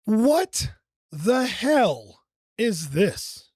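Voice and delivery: slow, stunned question; disbelief. Real, not acted. Reacting to the strange clip, stunned and slow. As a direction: drag it out in disbelief.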